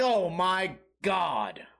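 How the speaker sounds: slow, drawn-out "oh my God"; long-drawn exasperated reaction; retold exasperation. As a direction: stretch each word in mock disbelief. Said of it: "And I'm like".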